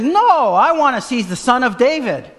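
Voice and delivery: high, loud defiant cry; yelling. Retold or imitated. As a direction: yell back over the crowd, refusing to hush.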